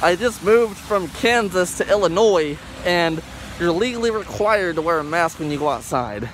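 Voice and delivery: muffled behind a mask; talking through a cloth mask; through a face mask. Real, not acted. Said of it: "Sorry I did it with a mask over my face".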